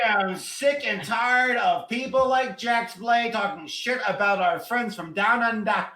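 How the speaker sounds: lightly hammed-up indignant rant; mock outrage. The speaker defending friends from Down Under, mock outrage. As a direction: play the offended campaigner.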